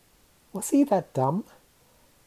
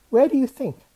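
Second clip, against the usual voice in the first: teasing; 9 semitones higher, 6 dB louder, faster than usual. A narrator's reading. Teasing retort, high and loud.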